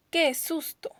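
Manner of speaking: alto y sorprendido, con energía; suéltalo como un susto de verdad; exclamación de susto. Shown as a demonstration. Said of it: "Esa oración exclamativa". (exclamación asustada, aguda)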